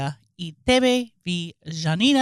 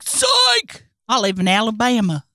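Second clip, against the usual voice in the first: mock gotcha shout. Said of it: "She'll be like".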